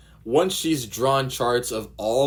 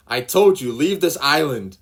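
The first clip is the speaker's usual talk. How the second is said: much louder and higher, furious yell; angry yell; 7 semitones higher, 10 dB louder than usual. Acted. Nami driving Luffy away, angry yell. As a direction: yell at him to leave.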